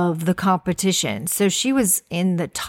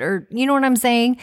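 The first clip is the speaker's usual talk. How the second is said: ordinary delivery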